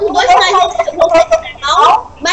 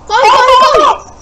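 high, urgent cry to run; panicked call while fleeing; being chased; 8 semitones higher, 3 dB louder, much slower than usual. Real, not acted. Fleeing the alien in game.

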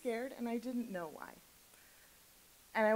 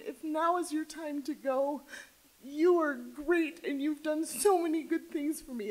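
tearful goodbye; 4 semitones higher than usual. Retold or imitated. Owner comforting her cat on the drive, tearful. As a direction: reassure the dying cat through tears.

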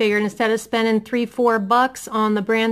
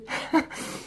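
teary breathless laugh; 8 dB quieter than usual. Real, not acted. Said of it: "I just get very emotional".

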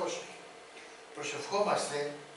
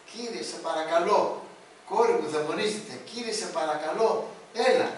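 pleading mother; 4 dB louder than usual. Acted. Woman begging Lord for daughter.

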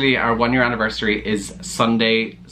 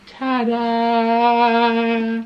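high, drawn-out singsong ta-da; playful ta-da; 11 semitones higher than usual. Pretend. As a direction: announce yourself with a long, high flourish. Boyfriend's playful entrance on cue.

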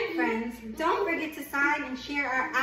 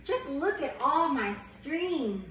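gentle picture-book read-aloud; reading to a child. Acted. Reads picture book to baby.

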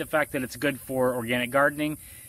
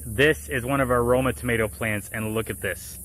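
speaking through a face mask; muffled, covered mouth. Real, not acted. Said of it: "you can kinda hear my muffled mask voice".

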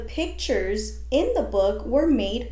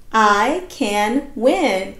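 loud and slow with excitement; excited; 5 dB louder, much slower than usual. Shown as a demonstration. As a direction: say it like you just won. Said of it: "read it with a lot of excitement".

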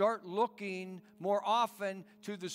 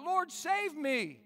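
high, slow desperate plea; cried out; 8 semitones higher, slower than usual. Acted. Peter sinking in the waves, crying to the Lord in fear. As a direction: stretch out a frightened cry for help. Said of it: "cried out".

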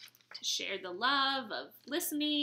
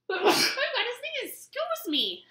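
laughing apology; 11 semitones higher, 4 dB louder than usual. Real, not acted. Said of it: "That was a real sneeze".

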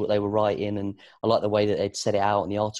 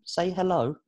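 higher-pitched, coaxing parent voice; coaxing a baby; 9 semitones higher than usual. Retold or imitated. Dad asking his baby to speak, coaxing. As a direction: gently prompt a baby in a lifted voice.

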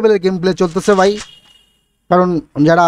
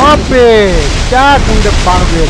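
louder burst of hype; excited; 4 dB louder than usual. Real, not acted. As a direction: shout the kill with delight. Caster reacts to a kill.

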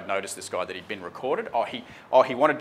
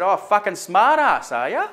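higher, louder, slow sneering jab; mock swearing cop; 9 semitones higher, 7 dB louder, slower than usual. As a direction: imitate a cop snarling an insult. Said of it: "He started swearing".

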